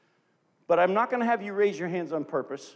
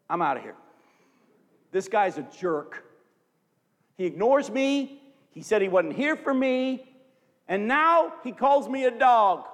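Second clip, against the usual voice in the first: rising to higher, louder, slowed outrage; indignant huff; 3 semitones higher, 4 dB louder than usual. Pretend. Ladies in the congregation imagined storming off, indignant. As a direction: storm off offended. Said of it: "most of you would have said".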